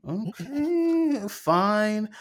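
high, laughing give-in; a reluctant okay that breaks into a laugh; amused resignation. Retold or imitated. Grudgingly accepting parents twist.

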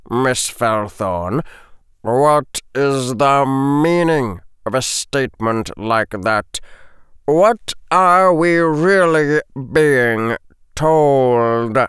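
slow, measured teacher's questioning; stern professor voice. Acted. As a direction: press the student with calm weight. Snape voiced in story.

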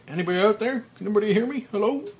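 high, loud desperate calls; calling for help. Acted. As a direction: shout up into the dark.

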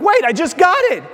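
high, fast, mock-whining baby; whiny child. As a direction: play the outraged toddler. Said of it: "they're like".

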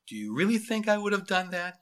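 lightly acted compassion; sincere. A narrator's reading. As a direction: reassure him with a sincere question. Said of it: "compassionate eyes and a sincere voice".

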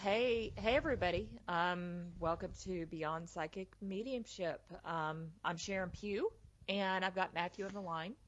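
upbeat radio show opening; radio host voice. Real, not acted. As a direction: greet listeners like a pro radio host. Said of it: "you sound like a professional radio show host".

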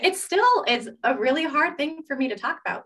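shaky voice. Real, not acted. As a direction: let the voice waver as you speak. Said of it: "you hear my voice shaking".

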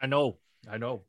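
lightly voiced Sean Connery-style impression; a hint of a Scottish film star; playful celebrity impression; a singer. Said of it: "a singer is Sean Connery".

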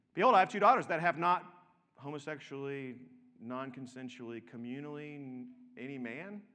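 mock reading. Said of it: "he then would be having to say this".

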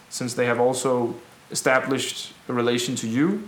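measured public address with deliberate pauses; rebel leader's speech. Acted. Rebel assures townspeople the innocent are safe, measured speech. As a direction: address a crowd in weighted phrases.

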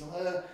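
short high cry, held back; imitated scream. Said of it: "Screaming in my face".

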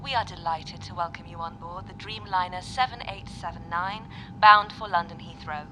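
polite cabin announcement over PA; flight attendant. Acted. Onboard welcome announcement.

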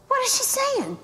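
high, startled whisper-to-a-friend ask; sudden high-pitched confusion; startled question. Retold or imitated. Panicked question to Patrick.

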